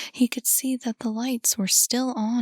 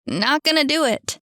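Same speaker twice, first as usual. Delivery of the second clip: loud, raised yell; 6 semitones higher, 4 dB louder than usual. A narrator's reading. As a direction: shout it at the game. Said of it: "yelled Cam".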